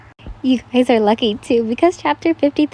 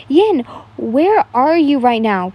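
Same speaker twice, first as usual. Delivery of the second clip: loud call; 2 semitones higher, 4 dB louder, slower than usual. Acted. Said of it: "hissed in pain over how loud he was".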